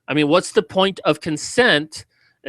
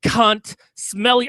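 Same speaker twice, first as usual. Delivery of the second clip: screaming insults, much higher and louder; furious shout; 7 semitones higher, 5 dB louder than usual. Real, not acted. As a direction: explode with real rage. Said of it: "I'm just so fucking angry".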